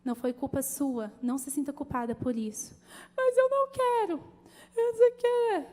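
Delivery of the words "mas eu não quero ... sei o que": high, loud whiny refusal; imitating a crying daughter who refuses to drive; tearful protest. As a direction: protest through tears like a scared girl.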